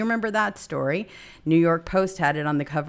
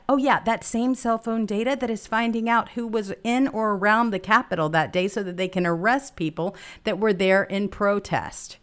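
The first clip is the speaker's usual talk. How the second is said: sarcastic; 4 semitones higher than usual. Real, not acted. Sarcastically echoing Barr's mockery.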